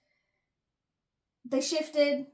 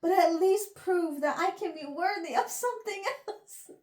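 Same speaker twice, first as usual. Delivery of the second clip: heroic; 5 semitones higher, 3 dB louder than usual. Retold or imitated. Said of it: "oh, heroic".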